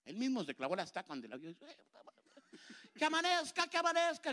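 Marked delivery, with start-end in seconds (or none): 2.9-4.3 high, mock shrieking Dracula; Dracula screaming. Dracula fleeing the ugly sister, hammed-up shriek. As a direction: squeal it like a terrified vampire begging for dawn. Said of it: "gritaba Draculilla".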